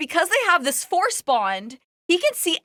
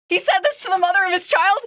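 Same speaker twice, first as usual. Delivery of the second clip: incredulous; 6 semitones higher, 3 dB louder, faster than usual. Retold or imitated. Incredulous reader reaction, fast and high.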